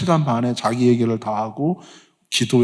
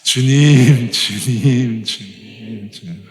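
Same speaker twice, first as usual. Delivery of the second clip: fading call; 2 semitones lower, much slower than usual. Shown as a demonstration. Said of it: "한 번만 더 합시다".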